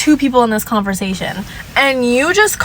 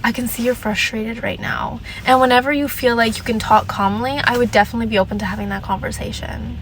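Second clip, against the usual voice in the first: softer, calm condescending script; 3 dB quieter than usual. Shown as a demonstration. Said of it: "Another good one".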